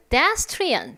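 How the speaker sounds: pedestrian as heard over a loudspeaker; through a speaker. Shown as a demonstration. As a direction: imitate a tinny exam speaker. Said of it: "스피커를 통해서 듣는 발음은".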